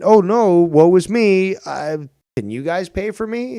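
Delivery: mock a pitiful beggar, overdone; mock self-pity. Mocking a begging streamer.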